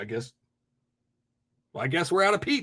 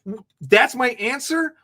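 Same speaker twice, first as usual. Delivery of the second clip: slow, disbelieving question; can't believe he said that; repeating it back in slow disbelief; incredulous; 3 semitones higher than usual. Real, not acted. Incredulous at caller's claim.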